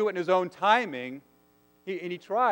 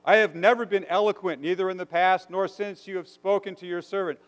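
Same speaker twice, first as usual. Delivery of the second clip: higher, louder, earnest plea; Moses pleading with God; 4 semitones higher, 3 dB louder than usual. Retold or imitated. Moses protesting to God, higher and louder. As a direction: beg the Lord to be let off. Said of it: "Moses says".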